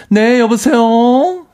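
high, slow, sugary hello; sudden sweet phone voice. Retold or imitated. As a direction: switch to a polite phone voice mid-fight. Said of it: "하면서 목소리 바뀌어요".

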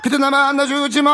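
lightly imitated singing of a singer; a hint of a singer's vocal style; impression of a singer. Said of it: "휘성형도 오셨네요".

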